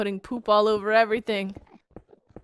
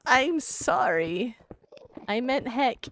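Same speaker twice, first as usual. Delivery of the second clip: panicked apology; 7 semitones higher, 8 dB louder, slower than usual. Retold or imitated. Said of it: "And being like".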